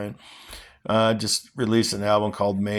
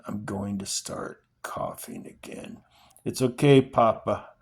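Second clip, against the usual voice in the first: steady, earnest reading of a novel; dramatic novel reading; story reading. Acted. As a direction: read the father and son scene aloud with feeling. Reading The Road aloud.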